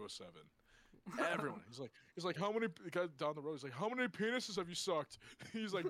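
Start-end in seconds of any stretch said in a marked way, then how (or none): 2.4-2.7 mock drunk fan. Voice of another fan. 3.7-5.2 mock drunk fan. Voice of another fan.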